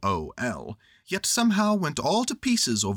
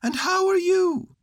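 high, louder bear voice; bright little bear asking kindly; high cheerful Pooh Bear; cheery Pooh; 6 dB louder than usual. A narrator's reading. Pooh's voice.

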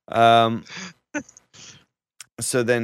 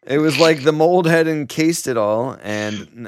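reading through laughter; laughing; 4 semitones higher, 5 dB louder than usual. Real, not acted. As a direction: read while laughing. Laugh heard while reading.

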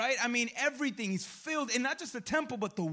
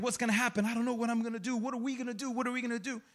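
frustrated; faster than usual. Acted. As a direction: fret anxiously, question after question.

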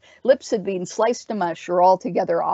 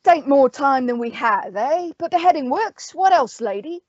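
higher-pitched captain's voice; sighing captain; 7 semitones higher than usual. A narrator's reading. Owl asking the witch how to kill them, sighing. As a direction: question her with weary practicality, pitched up. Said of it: "The owl sighed".

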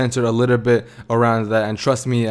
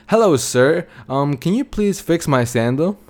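slightly higher, courteous asking voice; polite request; 4 semitones higher than usual. Retold or imitated. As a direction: play a polite customer asking a favor. God politely asks cobbler for help.

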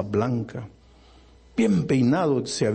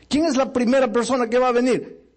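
high, projected altar-call question; calling out an invitation; 10 semitones higher, 3 dB louder than usual. Retold or imitated. Preacher asking the congregation who will come first, calling out.

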